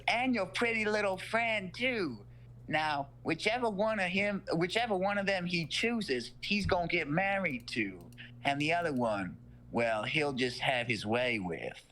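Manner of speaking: a light creepy Southern granny voice; creepy old lady. Retold or imitated. Creepy old mom voiced in story.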